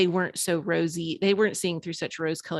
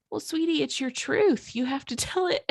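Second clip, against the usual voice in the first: imitating mom; 9 semitones higher than usual.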